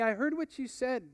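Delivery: calm him down gently; gentle. Acted. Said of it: "with a gentleness".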